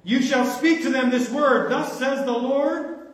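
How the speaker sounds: proclaimed scripture. Acted. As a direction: declare it like a prophet. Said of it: "It says".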